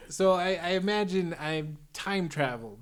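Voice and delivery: put-on light Chicago accent in character; villain with a mild Chicago accent. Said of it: "I'm doing the Undoer voice here".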